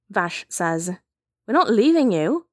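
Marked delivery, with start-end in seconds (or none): 1.5-2.5 higher, louder emotional protest; urgent, adamant refusal to go; insistent. A narrator's reading. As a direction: refuse firmly, pitch lifting with worry. Refusing to abandon sick friend.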